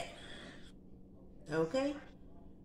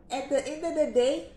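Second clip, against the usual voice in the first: plain; 7 semitones higher, 7 dB louder than usual. Pretend. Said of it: "in my rapper voice".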